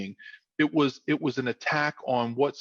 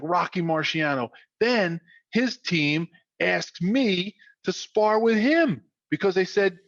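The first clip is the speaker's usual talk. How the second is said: raised, punchy South Philly yarn, easing down at the end; South Philly storyteller; 5 semitones higher than usual. Retold or imitated. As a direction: build up the big moment high in South Philly style, then settle. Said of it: "with his South Philly, like, storytelling capabilities".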